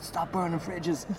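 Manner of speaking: high, slow crazed yell at talking volume; mock shouting. Comedian shouts weird stuff against the straight man, high mock yell. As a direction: cry it out high and stretched. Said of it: "I'm shouting all these different things".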